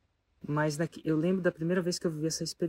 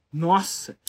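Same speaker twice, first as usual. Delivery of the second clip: amazed; 8 dB louder than usual. Real, not acted. Reacting to the turnaround.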